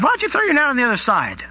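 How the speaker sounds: high, quick shouted-over suggestion; calling out. Acted. Jesus to fishermen in the boat, calling out.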